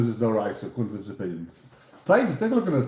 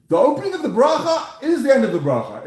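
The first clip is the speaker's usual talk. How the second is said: laughing; 10 semitones higher, 5 dB louder than usual. Real, not acted. Rebbe laughs explaining Rashi.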